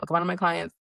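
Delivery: ordinary talk, nothing marked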